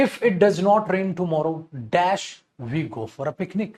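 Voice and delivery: reads the question very slowly, word by word; slow dictation. Shown as a demonstration. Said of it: "आगे". (प्रश्न धीरे-धीरे पढ़ना)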